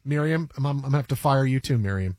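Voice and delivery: very low, deadpan dismissal; deep-voiced, rote apologies; evil banker. Banker fires his assistant Miriam, deadpan.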